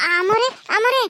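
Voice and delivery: panicked calling out; alarmed calling. Acted. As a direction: call out in sudden fright. Servant sees mistress collapse.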